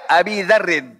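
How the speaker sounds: "Abi Dzarrin" with long i ending Abi; ya reading. Shown as a demonstration. Teacher giving an example with ya, "Abi" with long i. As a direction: model "Abi Dzarrin", holding the i. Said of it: "Pakai ya".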